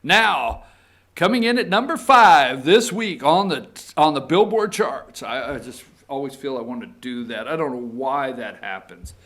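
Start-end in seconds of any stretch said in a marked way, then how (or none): 0.0-5.2 louder radio DJ countdown voice; mock DJ countdown intro. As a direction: announce it like a chart show host. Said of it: "I want to spin a record and say".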